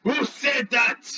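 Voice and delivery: slow, lightly voiced curious beast; a touch of a suspicious giant creature; dinosaur asking. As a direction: Triceratops swinging its head around, lightly voiced and slow. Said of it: "you hear".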